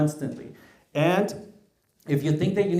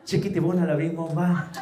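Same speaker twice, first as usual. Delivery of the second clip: laughing silly gush; 3 semitones higher than usual. Retold or imitated. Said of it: "No, I didn't say all of that".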